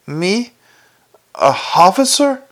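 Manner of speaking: indignant surprise. Acted. Sergeant scoffs at becoming captain.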